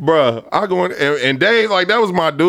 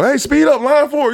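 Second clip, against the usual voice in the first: higher raised call; boss calling out; 12 semitones higher than usual. Retold or imitated. Boss telling line four to speed up, raised voice. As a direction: hurry the line along.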